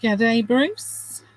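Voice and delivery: put-on light Australian accent greeting; a quick jokey Australian "G'day"; mock Australian accent. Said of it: "with my Australian accent there".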